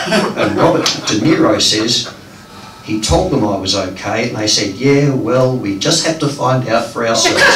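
measured phrases with pauses between; deliberate storytelling poetry delivery; poem reading. Acted. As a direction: read a dream poem aloud to an audience. Continues reading the poem aloud.

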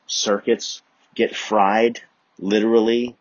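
loud, rising comic rant; mock rant. Real, not acted. Comedian ranting at the crowd, loud.

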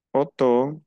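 Otto again with a round French o. Shown as a demonstration. Teacher repeats Otto for the class. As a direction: repeat Otto slowly, pure o. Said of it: "También se pronuncia O".

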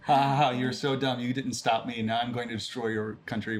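gloating villain, lightly hammed; a hint of a cackling evil mastermind; villain monologue. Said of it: "you gotta have your good villain monologue".

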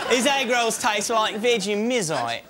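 slow, hammed-up Australian accent. Shown as a demonstration. Actor trying out an Aussie ad-lib, mock Australian accent. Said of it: "Is my Australian right?".

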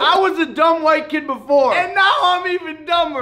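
teeth covered by metal grill; speaking around mouth jewelry; talking with grill in. Real, not acted. Seen 0: Fitted into his mouth at -9; teeth look covered while talking.

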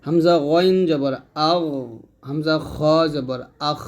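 আও and আখ sounded heavy from the end of the throat; deliberate, heavy back-throat endings on আও and আখ; thick articulation. Shown as a demonstration. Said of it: "গইনটা হবে মোটা করে গলার শেষ থেকে".

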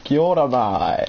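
mock Kiwi greeting. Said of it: "We get it, you're Aussie".

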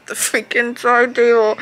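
loud pained exclamation; pained outburst. Real, not acted. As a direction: yelp it out in pain. Bumps side table mid-laugh.

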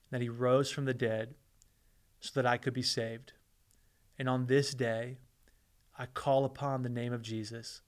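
measured prayer in short phrases with long pauses; leading a prayer. Real, not acted. Pastor leading viewers who repeat these words after him, prayerful.

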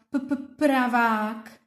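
"P, p" popped, then "pravák" slowly; isolated first sound. Shown as a demonstration. Teacher isolates the p sound of "pravák" for children. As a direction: stress the p sound. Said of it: "jaká je první hláska?".

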